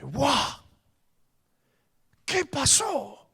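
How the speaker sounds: slow, bewildered exclamation; stunned wow. Retold or imitated. Husband bewildered by his wife's sudden tears, a slow stunned wow. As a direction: let the shock slow every word.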